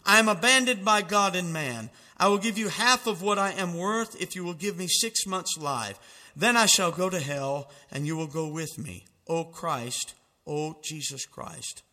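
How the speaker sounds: loud, pleading cry of a dying man; a mock desperate outcry, half-acted. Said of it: "Voltaire cried out most desperately".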